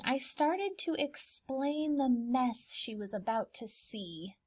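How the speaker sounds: hushed, guilty whisper; child whispering before mom sees the mess; nervous whisper. Acted. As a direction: whisper it, scared of getting caught. Sneaking before mom arrives.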